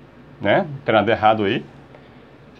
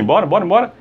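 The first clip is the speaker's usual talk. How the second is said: urging; 5 semitones higher, faster than usual. Acted. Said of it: "tipo assim".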